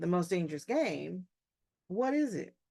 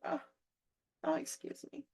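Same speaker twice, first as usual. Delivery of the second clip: mock polite apology; 9 semitones higher, 6 dB quieter than usual. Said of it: "You're like".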